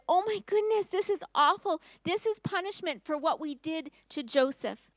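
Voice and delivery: high, panicked brothers' voice; terrified brothers. Acted. Brothers realise their punishment, high and frightened. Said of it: "They turned to each other and they said".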